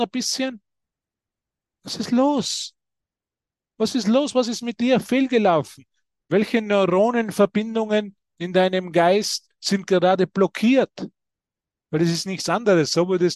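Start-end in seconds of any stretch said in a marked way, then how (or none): 1.8-11.1 higher teasing nudge; playful Jesus. Retold or imitated. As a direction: poke them playfully with the question. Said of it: "Würde Jesus sagen". (höher, neckend anstupsend)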